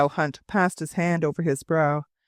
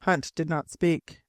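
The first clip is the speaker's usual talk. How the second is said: ordinary delivery, nothing marked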